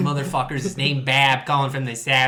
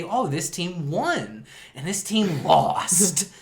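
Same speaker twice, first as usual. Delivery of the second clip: sarcastic; 4 semitones higher, 3 dB louder, much slower than usual. Acted. Sarcastic slow quote.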